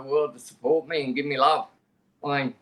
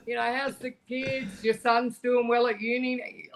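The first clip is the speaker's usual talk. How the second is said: imitating an excited friend, much higher, laughing at the start; mock excited greeting; 9 semitones higher than usual. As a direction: gush like an old friend spotting you, laughing. Mimicking friends greeting him warmly.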